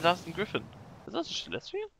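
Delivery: ordinary talk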